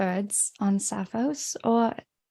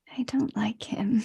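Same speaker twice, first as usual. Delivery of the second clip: whispered, noticeably quieter; 5 dB quieter than usual. As Arcadia, speaking only to herself: whispering to herself. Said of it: "just whispers to herself".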